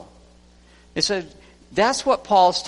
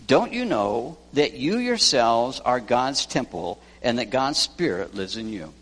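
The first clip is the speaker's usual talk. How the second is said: scolding. Retold or imitated. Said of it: "ten times he says".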